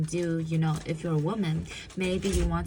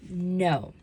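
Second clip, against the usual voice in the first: commanding no. Shown as a demonstration. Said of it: "So let's do it again".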